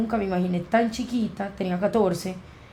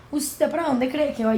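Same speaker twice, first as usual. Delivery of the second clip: stern teacher; 6 semitones higher than usual. Retold or imitated. Teacher stops her leaving.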